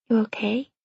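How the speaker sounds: silent mouthed words. A narrator's reading. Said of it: "he mouths to me".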